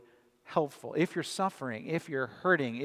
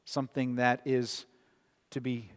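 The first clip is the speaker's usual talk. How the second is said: prayer. Acted. Leads a closing prayer.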